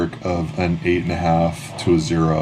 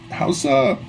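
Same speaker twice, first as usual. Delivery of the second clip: high falsetto vendor making small talk; squeaky-high voice asking after a regular; chatty vendor; 13 semitones higher than usual. Acted. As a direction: pitch it way up as the ice cream seller. Game master plays vendor chatting.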